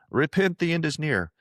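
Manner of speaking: high-pitched, hammed-up prophet's warning; mock doomsday preacher. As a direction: proclaim it like a caricature doomsayer. Mock doomsday street preacher quote.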